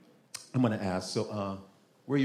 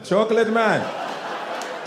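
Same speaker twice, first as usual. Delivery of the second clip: slow laughing repeat; laughing, stretched; 6 semitones higher, much slower than usual. Real, not acted. Comic repeating the punchline slowly while laughing. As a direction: drag it out laughing.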